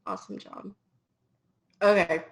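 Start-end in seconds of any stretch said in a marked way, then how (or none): 0.0-0.7 faint, half-whispered ghost voice; ghostly voice. Real, not acted. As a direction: fade out like a ghost. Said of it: "I sound like a ghost".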